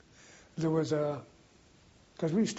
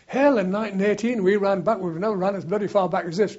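loud, higher-pitched boisterous quote; joking old soldier; 4 semitones higher, 7 dB louder than usual. Retold or imitated. Old soldier jokes to his mates about retreating, loud and boisterous. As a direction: call it out as a soldier's joke.

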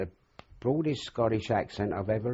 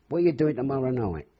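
eager; 6 semitones higher, 5 dB louder, faster than usual. Retold or imitated. Girl's bold invitation.

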